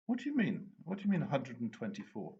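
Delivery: acting baffled at the speeding charge; feigned surprise. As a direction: play dumb with a startled jump up. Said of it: "I looked at him in surprise".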